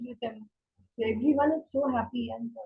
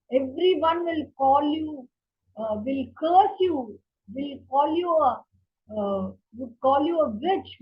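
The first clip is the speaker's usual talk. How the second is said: mild raised desperate pleading, pitch lifted; king begging wife; 2 semitones higher than usual. Retold or imitated. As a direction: plead with her, voice climbing. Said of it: "he starts begging".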